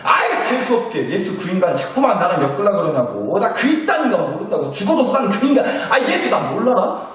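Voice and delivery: acted exasperation, rising in pitch toward the end; irritated denial. Peter disowns Jesus before his accusers, irritated. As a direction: disown someone with peevish insistence.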